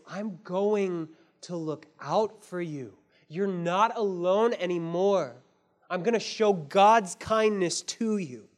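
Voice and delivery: slow, steady promise of protection; a father's gentle vow; gentle and protective. Acted. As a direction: reassure her you'll look out for her. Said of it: "in a gentle and protecting way".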